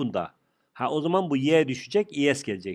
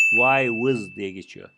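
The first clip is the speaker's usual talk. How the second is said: slow teaching; 3 semitones lower, 4 dB louder, much slower than usual. Shown as a demonstration. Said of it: "teacher models plural slowly".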